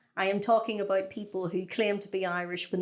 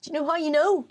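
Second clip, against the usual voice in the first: high, indignant comic outburst; exasperated rant; 10 semitones higher than usual. Acted. Podcaster telling fake Irish they are not Irish, exasperated rant. Mock-angry rant at false claimants.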